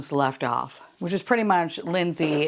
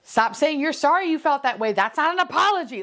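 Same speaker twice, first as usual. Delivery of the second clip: angry retort; 9 semitones higher than usual. Retold or imitated. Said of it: "screaming at each other".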